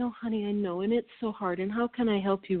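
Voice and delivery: mildly soothing quote, slightly soft; nice, tolerant. Retold or imitated. Wife recalling how she indulged her ex-husband, mildly soothing. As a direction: gently humour them, as if being nice. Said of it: "me being nice and me saying".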